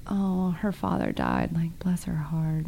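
slow, soft, concerned sympathy; a hushed, truly sorry bless her heart; sincere sympathy. Retold or imitated. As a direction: say it gently, really meaning it. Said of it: "generally concerned for someone".

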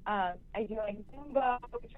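bad phone line cutting out; breaking up on a bad cell line; fading in through static. Real, not acted. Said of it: "your voice is fading in and out".

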